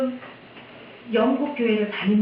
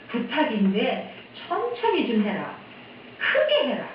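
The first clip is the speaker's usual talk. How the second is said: imploring request; 3 semitones higher than usual. Retold or imitated. Elderly congregation begging the pastor to speak up, imploring. Hard-of-hearing members beg pastor.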